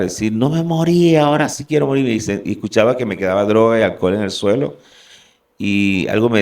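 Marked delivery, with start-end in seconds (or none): 0.3-2.1 anguished yell. Retold or imitated. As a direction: scream it out in despair. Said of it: "comencé a gritar".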